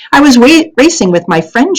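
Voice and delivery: put-on high, polite, nervous girl; polite answer. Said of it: "she answered politely".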